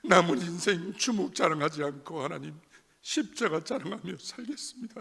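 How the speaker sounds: loud, strained prayer with a breaking voice; tearful pleading prayer. Retold or imitated. Recalling his desperate vow to God, a loud tearful plea. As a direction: cry out the vow to God as if weeping.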